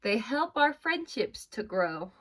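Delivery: slow, clear storybook reading; reading aloud. Acted. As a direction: read it slowly to the class. Teacher reads bilingual book aloud.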